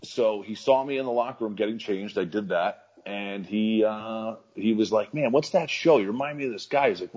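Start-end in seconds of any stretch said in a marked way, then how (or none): 5.1-6.9 a hint of an excited booker, higher; lightly voiced booker. Booker voiced in retold story.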